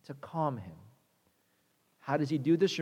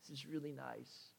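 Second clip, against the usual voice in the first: relieved Jonah; 3 semitones lower, 10 dB quieter than usual. Retold or imitated. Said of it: "He's like".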